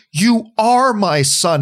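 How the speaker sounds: slow, firm retold fatherly reassurance; strong yet breaking. Father reassuring his adopted child, imitated as strong yet breaking. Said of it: "tries to strongly, yet while breaking".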